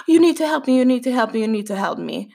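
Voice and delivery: mildly panicked pleading, words tumbling out in repeats; breathless repeated plea, imitating someone panicking; retold panic. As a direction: plead in a mock panic, starting high and sinking. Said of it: "har liksom panik".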